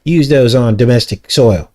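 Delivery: high, sing-song mocking never ever; mocking officials. Vlogger mocking officials' drone promises, high sarcastic sing-song. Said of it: "And they're like".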